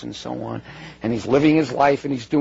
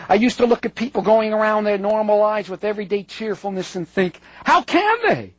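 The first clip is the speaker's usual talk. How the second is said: frustrated reading, pitch climbing at the questions; 5 semitones higher than usual. Retold or imitated. Lecturer quoting a writer baffled by cheerful people, frustrated. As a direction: read it as mounting, exasperated disbelief. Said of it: "his frustration with this".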